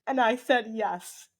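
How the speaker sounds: half-laughing, half-crying; teary laugh. Real, not acted. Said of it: "I'm gonna, like, cry telling this story".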